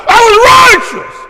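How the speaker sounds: ordinary delivery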